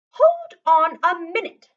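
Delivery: loud, high challenging call; stern trainer. A narrator's reading. Dog trainer challenging Lewis, loud and suspicious. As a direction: stop them short like a suspicious trainer. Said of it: "said the trainer".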